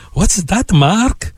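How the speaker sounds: lightly imitated Italian accent; mild Italian accent, retelling a boss. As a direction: put on a hint of an Italian executive's accent. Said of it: "he goes in his Italian accent".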